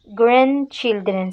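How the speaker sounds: "Grandchildren" with no d sounded in the middle; silent middle D. Shown as a demonstration. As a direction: model "Grandchildren", leaving out the middle d. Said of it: "Ne prononce pas que ça". (« Grandchildren » sans le d central)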